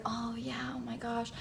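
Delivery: very quiet, pretend-casual murmur; feigned interest. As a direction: murmur as cover while secretly watching. Pretending to watch the fire.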